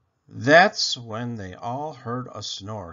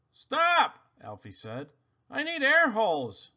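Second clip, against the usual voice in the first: much higher frantic plea; panicked boy; 11 semitones higher than usual. Acted. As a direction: beg urgently from inside box. Boy in box pleading.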